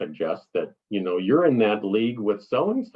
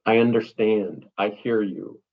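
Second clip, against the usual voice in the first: gracious reply. Shown as a demonstration. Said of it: "respectful and as gracious".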